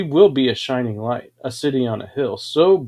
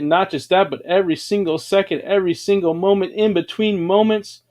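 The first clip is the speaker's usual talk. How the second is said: rising, faster and higher; building excitement; 5 semitones higher than usual. Acted. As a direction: build the list to a peak. Building list, climbing.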